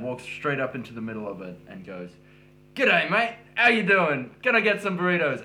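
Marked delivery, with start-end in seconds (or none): 2.7-5.4 high, booming imitation of dad; loud retold greeting. Dad walks into a silent restaurant, loud cheery greeting. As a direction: hail the whole room boldly.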